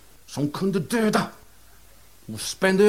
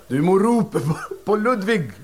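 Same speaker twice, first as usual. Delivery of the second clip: laughing medium; 3 semitones higher than usual. Acted. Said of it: "sa mediet".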